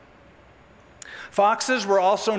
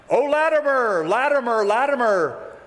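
preacher's soliloquy; slower than usual. Acted. Preacher addressing himself before the visiting king, theatrical soliloquy. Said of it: "he performed a little soliloquy".

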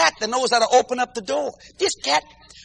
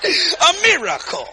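mock hallelujah; 2 semitones higher, much slower than usual. Mock praise at wife's recovery.

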